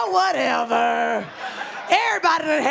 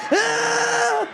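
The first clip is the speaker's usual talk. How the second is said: mock scream; 8 semitones higher than usual. Scream at the sonogram.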